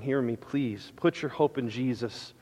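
hushed, earnest plea, voice dropped low; quiet heartfelt appeal; soft pleading. Real, not acted. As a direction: plead gently with the congregation. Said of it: "I'm pleading with you this morning".

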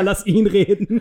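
normal talking voice

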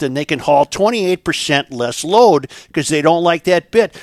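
lightly voiced gypsy reporting.

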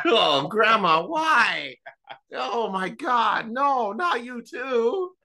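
high, slow horrified disbelief; shocked dismay. Acted. Grandson shocked by grandma.

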